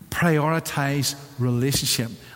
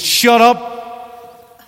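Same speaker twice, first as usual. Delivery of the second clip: wife's tender reply; 4 semitones lower, 5 dB louder, much slower than usual. Retold or imitated. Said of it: "and she goes".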